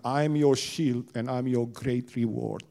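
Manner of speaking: slow, solemn divine voice; voice of God. Retold or imitated. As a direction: speak slowly as God. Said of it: "Tuhan bilang kepada Abraham".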